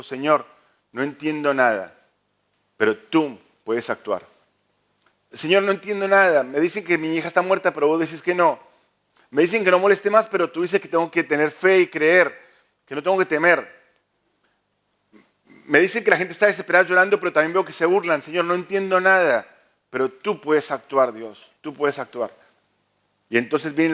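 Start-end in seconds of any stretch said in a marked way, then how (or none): 0.0-4.3 desperate prayer. Acted. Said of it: "la escena de la desesperación". 5.3-22.3 desperate outcry. Acted. Jairo crying out to the Lord in desperation, rising then hushed. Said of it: "la escena de la desesperación".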